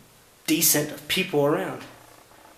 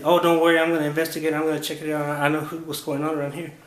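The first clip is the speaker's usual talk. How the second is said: mock cop reassurance; 3 semitones higher than usual. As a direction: lightly imitate a cop waving it away. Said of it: "cop answers in retold dialogue".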